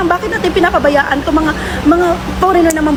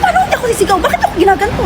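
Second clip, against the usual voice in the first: pitched-up angry retort; retold shout; 8 semitones higher, faster than usual. Yelling back at the woman who scolded her, angry. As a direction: fire back, high and indignant. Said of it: "Bakit ka sumisigaw?".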